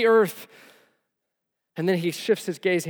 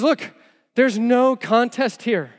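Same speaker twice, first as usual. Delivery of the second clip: emphatic declaration; 6 semitones higher, 6 dB louder, slower than usual. Retold or imitated. David's emphatic verdict.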